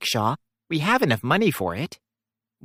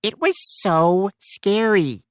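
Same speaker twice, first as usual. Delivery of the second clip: scared; 3 semitones higher, slower than usual. Acted. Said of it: "You sounded really scared".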